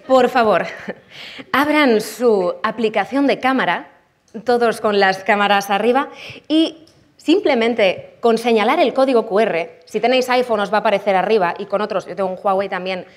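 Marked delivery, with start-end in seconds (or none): 0.1-11.5 lightly put-on cabin crew announcement; Vueling flight attendant voice. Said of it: "con mi voz de azafata de Vueling".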